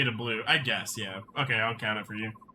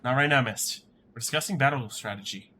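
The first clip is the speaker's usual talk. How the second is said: stern commander Ike. Acted. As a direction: lightly play a commander putting her off. Ike brushes Mist off.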